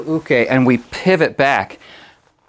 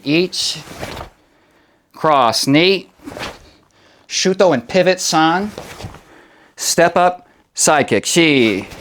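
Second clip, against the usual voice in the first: sharp martial arts commands; 4 semitones higher, slower than usual. Shown as a demonstration. Karate teacher counting drill.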